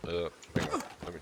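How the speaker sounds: talking around a lip of dip; lip full of dip. Real, not acted. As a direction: mouth full of tobacco. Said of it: "I had a dip in my mouth".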